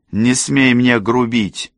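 high, slow, imperious reprimand; cutting rebuke. A narrator's reading. Rosalinda cuts Cassie off, sharp high rebuke. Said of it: "оборвала её Розалинда".

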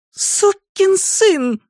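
high, very drawn-out curse; enraged woman's high-pitched swearing; furious insult. A narrator's reading. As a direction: stretch each word in rage. Woman curses man while hitting him.

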